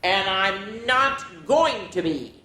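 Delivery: a stubborn grumpy tree; grumbling. Acted. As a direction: dig in your heels like a sulky tree. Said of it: "tree grumbled".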